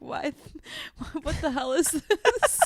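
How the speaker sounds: hammed-up what-the-hell reaction; indignant disbelief. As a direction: act baffled and offended by the gift. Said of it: "I'm like".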